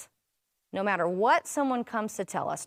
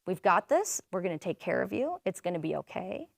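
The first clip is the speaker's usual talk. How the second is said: calm reassurance; 3 semitones lower than usual. Pretend. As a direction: reassure the injured gently. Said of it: "be calm and say".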